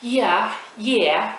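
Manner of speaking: high-pitched British "yeah", swooping tune; badly imitated British accent. Shown as a demonstration. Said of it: "l'accent britannique".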